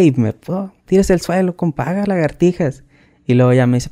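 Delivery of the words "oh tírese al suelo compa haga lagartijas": lightly acted command, higher in pitch; a touch of drill-sergeant dismissiveness; imitated sergeant's order. Sergeant orders push-ups after the hug, mock commanding.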